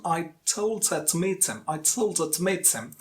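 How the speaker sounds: TOLD and MEET carry the beat, small words squeezed; stress-timed rhythm. Shown as a demonstration. Teacher models British rhythm for learners, stress-timed. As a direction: punch "told" and "meet", glide quickly over "her to". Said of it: "With syllable timed rhythm".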